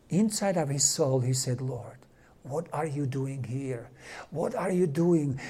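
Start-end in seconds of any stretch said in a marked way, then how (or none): 1.6-5.4 soft, slow, low prayer under the breath; hushed retold prayer; quiet inner prayer. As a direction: pray silently to yourself, barely aloud. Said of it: "he was quietly praying".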